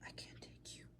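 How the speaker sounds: barely audible, voiceless murmur; tiny whispered letdown, as mimicry; imitated mom's refusal. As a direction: act out a feeble refusal under the breath.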